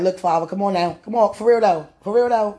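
loud, insistent appeal to the Father; pleading with God. Acted. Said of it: "I'm like".

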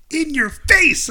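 high, drawn-out mock taunt; gloating cheer. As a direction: crow it slowly in imitation of a sore winner. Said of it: "he's, like, really cheering".

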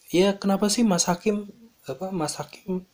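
high-pitched mock complaint; imitating irate guest. Hotel guest to front office staff refused CCTV access, mock irate. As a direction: act out a guest demanding answers. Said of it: "tamunya itu bener-bener ngamuk".

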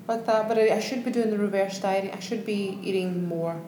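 strong real Scottish accent; talking English in a thick Scottish brogue; broad Scottish accent. Real, not acted. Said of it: "she is speaking English. It's just with a strong Scottish accent".

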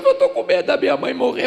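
loud, high mock wail; hammed-up tearful friend; imitated crying. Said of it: "E ele chorou". (imitação de choro, alto e agudo)

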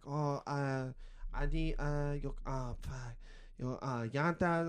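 halting Spanish try. Retold or imitated. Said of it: "I've had this dude come in one time".

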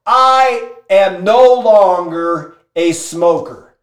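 slow, weighty "I am no longer a smoker"; emphatic declaration. Retold or imitated. Smoker vowing at his emotional peak, slow emphatic declaration. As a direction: space out "I am no longer" like a vow. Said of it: "high emotional state".

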